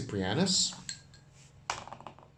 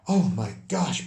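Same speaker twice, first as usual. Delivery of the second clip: mild dismay; 4 semitones higher, 5 dB louder than usual. Acted. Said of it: "Poppy says".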